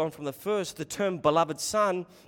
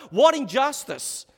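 indignant exclamation; 8 semitones higher, 8 dB louder than usual. Real, not acted. Preacher exclaims.

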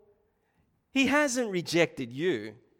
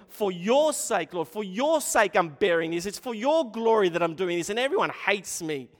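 impassioned prayer; 3 semitones higher, 4 dB louder than usual. Acted. Voicing Jeremiah's prayer.

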